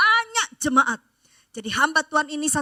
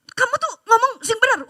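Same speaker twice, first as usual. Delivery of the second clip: angry retort; 7 semitones higher than usual. Retold or imitated. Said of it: "saya marah".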